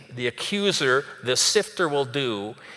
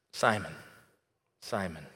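soft, tender naming, lower and much softer; a gentle call full of compassion; 4 semitones lower, 6 dB quieter than usual. Retold or imitated. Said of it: "Gentle are the ways of Jesus".

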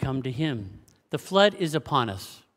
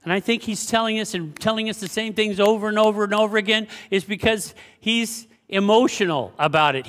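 ordinary talk

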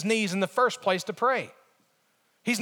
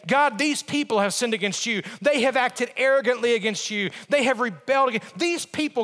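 mock accusing prayer; finger-pointing. Preacher as Nehemiah blaming the people to God, finger-pointing. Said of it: "for us to point the finger".

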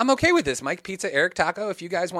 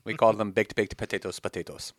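low, soft mock Russian accent; understated Russian-accented joke; 6 semitones lower, 4 dB quieter than usual. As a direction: trail off lower in a comic Russian accent. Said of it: "we talk in a Russian accent".

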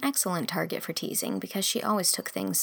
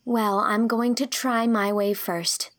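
much higher, firm refusal; indignant young girl; 4 semitones higher, 4 dB louder, slower than usual. Acted. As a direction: protest earnestly. Girl stubborn.

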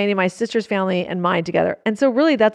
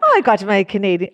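attempted Canadian accent, Irish-tinged; badly faked Canadian accent; 4 semitones lower than usual. Shown as a demonstration. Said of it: "do your Canadian again if you can".

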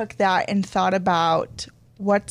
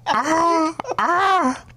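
high, loud shrieking screech; shrill screeching wyvern; 8 semitones higher, 4 dB louder than usual. Shown as a demonstration. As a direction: screech like a flying reptile. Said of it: "make a pterodactyl noise".

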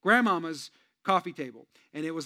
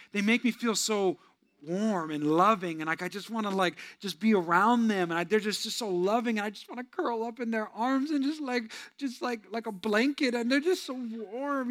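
gushing friend; 4 semitones higher than usual. Retold or imitated. Church member gushing about a loving friend, lightly swooning. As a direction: gush like someone melting into a hug. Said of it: "they always".

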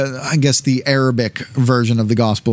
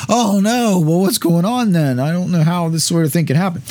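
mock panic; 4 semitones higher than usual. Joseph panics on finding pregnancy.

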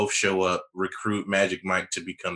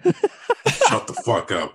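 Vin Diesel impression; 4 dB louder, slower than usual. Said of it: "I can't do a good Vin Diesel".

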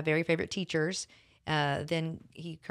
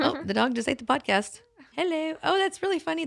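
excited; 10 semitones higher, 4 dB louder than usual. Real, not acted. Reacting to dog eating podcast.

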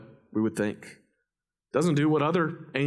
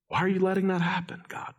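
acted complaint to God, higher and quick; frustrated; 7 semitones higher, faster than usual. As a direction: demand an answer, mildly exasperated. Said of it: "He's frustrated that after all he's done".

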